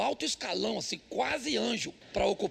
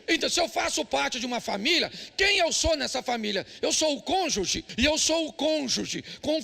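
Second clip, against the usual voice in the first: forceful preaching; 4 semitones higher than usual. Real, not acted.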